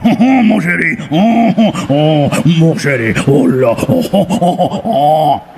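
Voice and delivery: hammed-up French skunk crooning; Pepe Le Pew French. Comic imitating Pepe Le Pew, crooning mock French. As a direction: croon it like a cartoon French lover. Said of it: "he disguises it with the".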